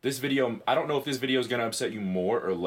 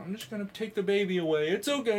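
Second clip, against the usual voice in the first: higher-pitched mock soothing; imitated placating parent; 9 semitones higher, faster than usual. Onlooker taking the baby from the priest, in mock placating tones. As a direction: placate in a raised, careful voice.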